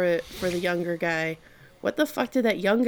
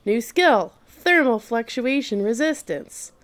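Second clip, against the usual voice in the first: higher, announcing system voice; game system announcement; computer voice; 4 semitones higher, 3 dB louder than usual. Retold or imitated. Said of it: "the computer's like".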